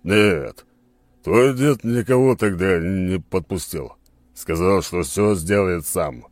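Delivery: Skala's voice. Acted. Skala answers, slow and loud.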